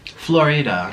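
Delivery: Florida with a clear ee in the middle; Spanish-style Florida. Shown as a demonstration. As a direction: say Florida in three careful syllables, Flor-ee-da. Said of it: "I say Florida. It's pronounced Florida".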